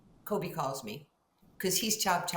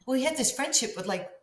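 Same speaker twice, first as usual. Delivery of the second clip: laughing; 6 semitones higher, 9 dB louder than usual. Real, not acted. Laughing about Kobe's friendships.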